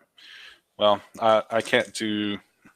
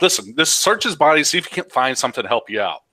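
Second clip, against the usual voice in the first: a touch of frustrated urging; 4 semitones higher, faster than usual. Acted. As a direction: urge them on with mild exasperation. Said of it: "I get a little frustrated".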